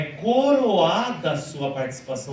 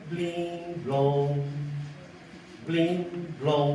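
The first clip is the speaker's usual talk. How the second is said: doorbell chime; 4 dB quieter, much slower than usual. Shown as a demonstration. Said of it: "cantada igual uma campainha".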